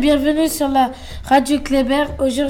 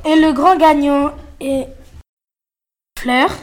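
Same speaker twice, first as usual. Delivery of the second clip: booming prize announcer. Acted. Announcing the quiz winner.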